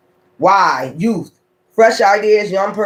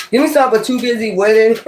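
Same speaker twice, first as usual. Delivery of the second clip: laughing through it, a bit fast; 2 semitones higher, faster than usual. Real, not acted. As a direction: giggle your way through the request. Laughing while asking the cards.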